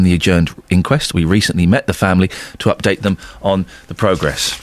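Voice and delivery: measured newsreader delivery of a statement; news statement read. Real, not acted. Presenter reading police statements to listeners, formal news read. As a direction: read out the official response clearly.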